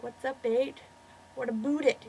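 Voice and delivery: mock Canadian accent, lightly done; stereotypical Canadian accent. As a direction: put on a caricature Canadian accent. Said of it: "And then Canadians, like".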